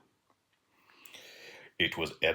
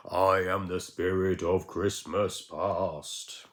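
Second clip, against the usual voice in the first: slow, louder spirit pronouncement; lightly spooky spirit; 4 dB louder, much slower than usual. Acted. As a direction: announce it slowly like a spirit. Spirit introduces itself.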